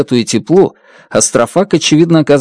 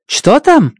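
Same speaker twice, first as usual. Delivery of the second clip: impatient; 12 semitones higher than usual. Acted. Strat pressing for result.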